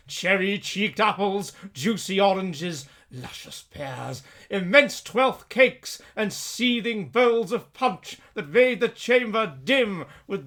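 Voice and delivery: vivid storybook narration with slowed lists; story narration. A narrator's reading. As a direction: read it like a Dickens tale. Reading A Christmas Carol aloud.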